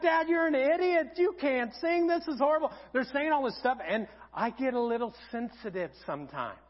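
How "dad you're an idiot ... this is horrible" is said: higher-pitched retold teasing jeer; mock Dad's singing, pitched up; imitating mocking daughters. Daughters to their dad after he sings, mocking. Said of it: "they erupt in laughter".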